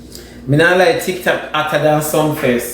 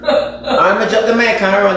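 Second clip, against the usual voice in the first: laughing; 4 semitones higher than usual. Real, not acted. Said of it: "laughs while saying it".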